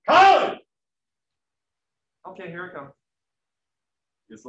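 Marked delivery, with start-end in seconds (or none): 0.1-0.6 very loud, very high scream of the name; furious high shout of the name; exasperated yell. Retold or imitated. Parent's final exasperated yell. 2.3-2.9 soft, small voice giving in; quiet cowed answer; meek reply. Retold or imitated. Kid finally answers, cowed.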